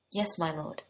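a soft, choked yes barely managed; strained, quiet reply. Acted. Boy forcing out a reply to the prince, choked and soft. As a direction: get the words out through held-back tears. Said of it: "Melon managed".

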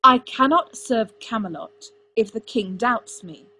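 loud, slow, forceful outburst; shouting. A narrator's reading. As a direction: shout it with heavy emphasis. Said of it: "Arthur shouted at him".

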